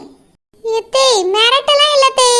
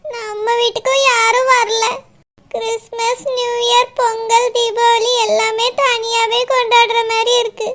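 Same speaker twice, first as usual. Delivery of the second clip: tearful complaint. Acted. Wife tearfully complains to husband.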